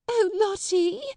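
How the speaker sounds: high, loud pleading cry; frantic teacher shrieking at a child; screaming. A narrator's reading. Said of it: "screamed Miss Amelia".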